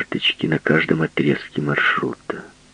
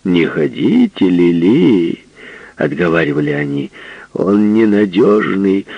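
loud warning; 3 semitones higher, 4 dB louder than usual. Acted. Friends warn Lily loudly.

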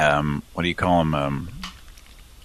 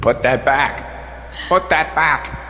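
high pitch shifted; 9 semitones higher, slower than usual. Pretend. Playing with voice effects.

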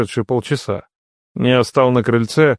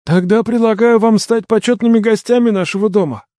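formal invitation; 9 semitones higher than usual. A narrator's reading. Host formally invites the guests.

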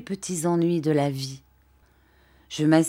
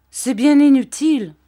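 Dora qui proteste; 8 semitones higher, 9 dB louder than usual. A narrator's reading. Dora proteste, voix plus aiguë.

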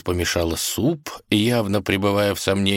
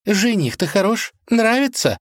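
much higher, eager question; old cook prying; eager auntie; 3 dB louder than usual. Acted. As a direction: nudge her for an answer.

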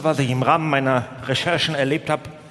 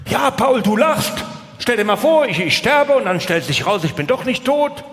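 mother-in-law pleading; 5 semitones higher than usual. Retold or imitated. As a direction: play the mother-in-law scolding Paul for laughing. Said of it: "dann wird das Thema".

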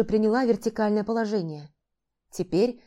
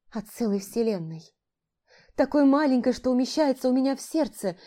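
high, pleading, close to whining; almost whimpering; 4 semitones higher than usual. Acted. Heroine begs her cat to explain, almost whimpering. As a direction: beg him for an answer, nearly whimpering. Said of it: "Почти скуля спросила я".

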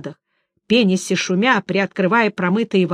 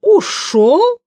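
a high, trilled startled question; siren's high surprised trill; high trilling surprise; 12 semitones higher, 6 dB louder than usual. A narrator's reading. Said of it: "высокой трелью удивилась Сирена".

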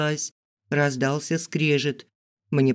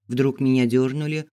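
usual speaking voice

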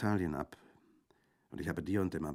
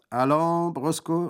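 high, loud command to a dog; calling out; 12 semitones higher, 13 dB louder, slower than usual. A narrator's reading. Bandit to his dog Brusco, calling out. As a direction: call the dog to perform. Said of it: "rief er".

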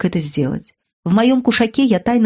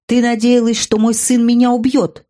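angry king; 5 semitones higher, 4 dB louder than usual. Acted. Chaka's fury at mother.

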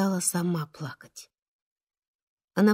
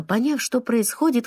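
usual speaking voice

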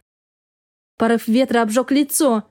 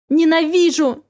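tearful fury; 5 semitones higher than usual. Acted. Wife hurling snow and hatred at her husband. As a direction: throw the word like the snow.

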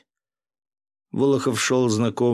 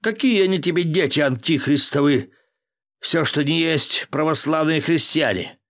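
heated, higher and louder protest; indignant outburst; 7 semitones higher, 4 dB louder than usual. A narrator's reading. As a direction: keep shouting back in outrage. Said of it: "взвился Волохов".

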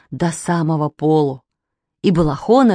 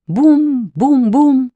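slow, louder boom-boom-boom like a drum; drum beat imitation; 6 semitones higher, 4 dB louder, much slower than usual. A narrator's reading. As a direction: beat out the drum sounds slowly. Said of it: "барабан издал резкий, сухой и весёлый звук". (медленно, звонко, как удары барабана)

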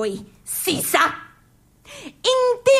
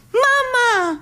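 excited exclamation; 9 semitones higher than usual. Acted. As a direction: shout it out delighted. (esclamazione entusiasta, acuta)

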